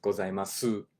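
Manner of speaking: Gozaimasu with a full final su; unnatural. Shown as a demonstration. Teacher shows the unnatural full ending. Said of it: "it's not natural to say".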